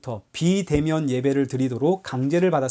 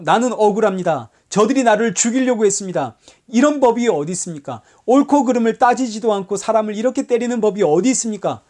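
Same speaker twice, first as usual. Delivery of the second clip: mock complaint; 4 semitones higher, 3 dB louder than usual. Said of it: "이렇게 따지지 않습니다".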